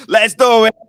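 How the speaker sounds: loud high eager reply; eager yes. Retold or imitated. JT answering the deal text, eager instant yes. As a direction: jump at the deal, all in.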